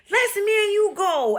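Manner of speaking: high-pitched keen proposal; animated retold eagerness; eager patient. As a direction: imitate a patient raring to go.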